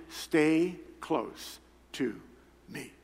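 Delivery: drawn-out gentle words; slow tender plea. Retold or imitated. God asking Cindy to stay close, tender and slow. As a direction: say it slowly, lovingly. God's last word for Cindy.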